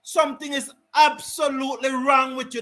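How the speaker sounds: indignant outburst, pushing the word wrong; heated on-air rant; angry rant. Real, not acted. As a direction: scold the umpire like you mean it. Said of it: "my apology for that rant".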